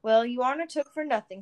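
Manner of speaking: teasing, laughing through tears; joking. A narrator's reading. Father joking with his son, teasing. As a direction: tease him fondly. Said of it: "he joked".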